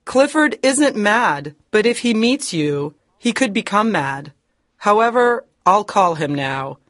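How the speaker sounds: high anxious yielding; fearful warning. Acted. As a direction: warn him anxiously. Hepzibah yields.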